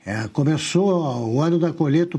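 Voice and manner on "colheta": "colheita" said as "colheta"; plain e in place of ei in "colheita"; Lula's pronunciation. Retold or imitated. Commentator quoting the president's word, "colheita" as "colheta". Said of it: "Pronúncia do nosso presidente analfabeto".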